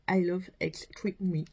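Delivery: English product name in a French accent. Real, not acted. Vlogger reading out a mascara's English name, French accent. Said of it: "Moi et mon accent anglais".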